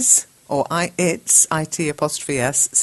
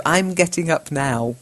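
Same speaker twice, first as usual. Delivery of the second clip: slow careful teacher voice; slow correction. Shown as a demonstration. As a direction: read the correction slowly. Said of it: "When you say now".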